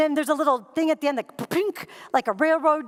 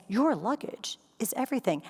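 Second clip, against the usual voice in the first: stern agent; 4 semitones lower, 5 dB quieter than usual. Retold or imitated. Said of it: "She said".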